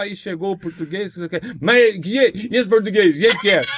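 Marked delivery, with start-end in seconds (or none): 1.6-3.6 put-on annoyed old lady. Irritated lady in audience complaining.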